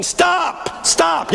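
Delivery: high-pitched mock heckle; imitated audience yell. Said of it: "White audience is always yelling".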